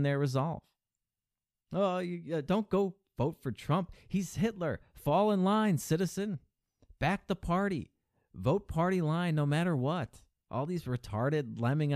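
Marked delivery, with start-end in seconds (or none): 1.7-10.2 higher, sneering parody of a scolding partisan; mock the preachy party faithful, pitched up; mocking party loyalist. Host mocking loyalists telling Bernie fans to fall in line, in a high sneering parody voice.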